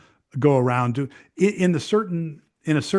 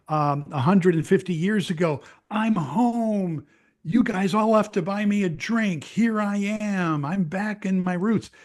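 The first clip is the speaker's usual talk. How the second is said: a hint of a gushing returning emigrant, higher pitched; lightly voiced announcement to a whole pub, raised pitch; mock eager tourist; 4 semitones higher than usual. Imagined American announcing himself in an Irish pub, mock eager.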